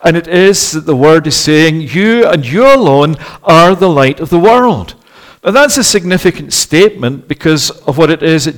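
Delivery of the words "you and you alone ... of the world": "You" stressed and set apart before "and you alone"; emphatic YOU. Shown as a demonstration. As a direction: punch both "you"s in "You and you alone". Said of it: "It's emphatic, the you that's being used".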